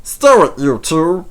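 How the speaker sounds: high, loud order to stop; loud call to stop bickering; sharp telling-off. A narrator's reading. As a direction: shut the two of them up. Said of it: "said Bert".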